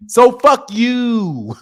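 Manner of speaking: dismissive slow kiss-off; drawn-out playful jab; slow taunting so fuck you. Real, not acted.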